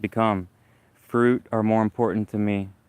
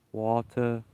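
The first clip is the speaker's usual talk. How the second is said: slow practice; 3 dB quieter, slower than usual. Shown as a demonstration. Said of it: "pronounce the S at the end of the word watermelons".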